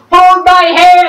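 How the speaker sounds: high, loud plea; urgent cry. Retold or imitated. Friends reaching out to Star-Lord, a high, loud cry. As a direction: call out to grab hold, urgently. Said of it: "they were like".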